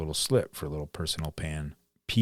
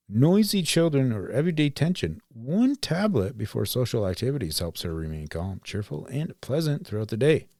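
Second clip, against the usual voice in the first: bright, peppy vintage ad read; chipper 1950s ad; 3 semitones higher than usual. Retold or imitated. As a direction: sell it like an old radio ad. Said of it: "here's a ad from nineteen fifty-two".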